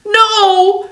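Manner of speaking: high-pitched storybook cry; mock shouted objection; mild shout. A narrator's reading. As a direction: call it out high, without much volume. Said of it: "shouts Eddie".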